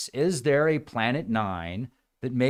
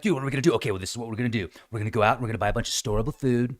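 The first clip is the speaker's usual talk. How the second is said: panicky planner; 3 semitones lower, much faster than usual. Retold or imitated. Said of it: "freaking out".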